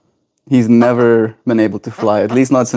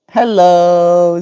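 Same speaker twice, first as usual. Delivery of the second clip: talking to a pet; 6 semitones higher, 3 dB louder than usual. Real, not acted. Baby talk to parrot.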